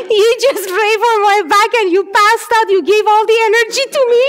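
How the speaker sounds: high-pitched imitation of an amazed girl; loud, high mock amazement; excited retelling. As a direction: act out her astonishment, pitched well up. Acting out the healed girl's reaction.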